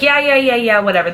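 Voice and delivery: quick mock agreement, starting high then dropping; imitated brush-off. Front office hearing her concerns, mock dismissive. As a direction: imitate someone waving a complaint away. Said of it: "blew it off".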